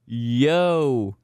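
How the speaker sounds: stunned, drawn-out exclamation; flabbergasted. Real, not acted. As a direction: gawp out loud, half laughing. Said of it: "I'm flabbergasted".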